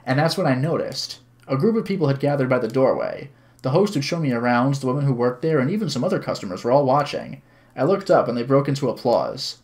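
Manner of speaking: even, measured narrating voice; story narration. A narrator's reading. Streamer reads visual novel to viewers, story narration. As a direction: read the story aloud clearly.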